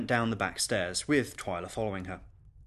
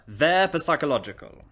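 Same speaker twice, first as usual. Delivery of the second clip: lightly voiced child echoing a grown-up, higher and louder; little girl parroting; 5 semitones higher, 7 dB louder than usual. Little girl echoes guest's praise, childish mimicry. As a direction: parrot the long word as a child.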